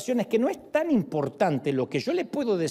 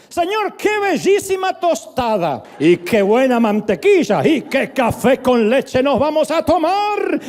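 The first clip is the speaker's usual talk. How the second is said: louder, slow, beaming prayer over breakfast; loud joyful prayer; 5 semitones higher, 8 dB louder, slower than usual. Retold or imitated. Mentor praying aloud over breakfast, loud and slow. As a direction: proclaim thanks for toast and coffee with eyes wide open. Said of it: "Déjame que ore yo".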